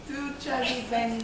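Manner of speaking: talking through marshmallows; mouth full. Real, not acted. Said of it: "and then you put them in your mouth".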